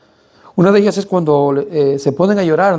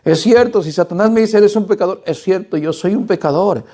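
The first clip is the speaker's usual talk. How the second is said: higher-pitched, earnest confession in an acted reply; emphatic admission; 6 semitones higher than usual. Believer answering Satan's accusation, emphatic admission. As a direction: concede it with raised, insistent pitch.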